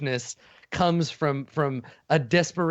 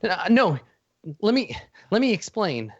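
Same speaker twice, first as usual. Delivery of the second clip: pleading; 6 semitones higher than usual. Acted. Creature begs Rex.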